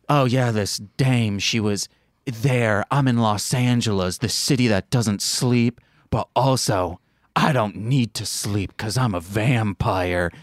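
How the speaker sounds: lightly voiced noir narrator; a hint of hard-boiled film noir monologue; film noir parody. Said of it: "it felt like a parody of film noir".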